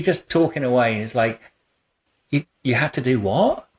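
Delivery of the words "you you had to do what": mildly incredulous, pitch rising on the question; astonished listener, retold; surprised reaction. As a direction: react with mock disbelief, then realisation. Voices surprised reaction to stories.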